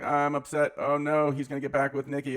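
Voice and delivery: hammed-up jealous wail; imitating a jealous girlfriend's panic; mock upset. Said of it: "Tiffany's like".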